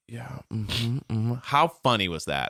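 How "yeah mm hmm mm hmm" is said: quiet, far-off absent mm-hmms; bored husband. Retold or imitated. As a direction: nod along without listening. Husband tuning out wife's talk.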